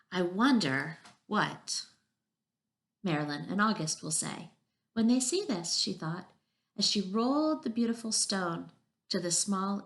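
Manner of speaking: measured read-aloud with lilting emphasis; story narration. A narrator's reading. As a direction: read a picture book to young children. Reads a picture book aloud.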